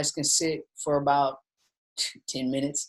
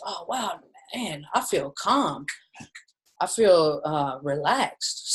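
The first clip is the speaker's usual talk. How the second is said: mock calm; slower than usual. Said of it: "And people say".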